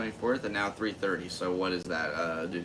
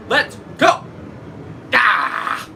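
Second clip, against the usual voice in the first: much higher, loud triumphant cheer; excited cheering; 11 dB louder than usual. Real, not acted. Comedian celebrating ten months of comedy, excited cheering. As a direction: whoop it up like a victory lap.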